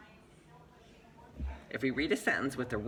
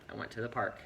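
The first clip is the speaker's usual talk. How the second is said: "I went to the park" with the voice dropping at the end; statement of fact; 3 semitones lower than usual. Shown as a demonstration. Teacher modelling "I went to the park" as factual statement. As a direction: read "I went to the park" as a plain fact, falling on PARK. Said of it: "Just a fact".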